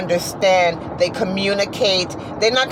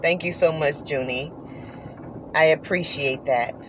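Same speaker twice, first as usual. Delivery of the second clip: soft thanks; 4 semitones lower, 6 dB quieter than usual. Retold or imitated. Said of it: "I said".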